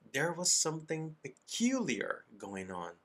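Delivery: slow reading with lifted emphasis; story narration. A narrator's reading. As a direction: read the story slowly for students. Resumes reading the story aloud. (leitura pausada de história para alunos)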